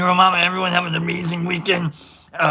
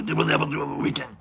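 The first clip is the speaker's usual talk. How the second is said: low, soft, fast muppet voice; a quick hushed go at a monster voice; Cookie Monster; 4 semitones lower, 5 dB quieter, faster than usual. Retold or imitated. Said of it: "It's Cookie Monster".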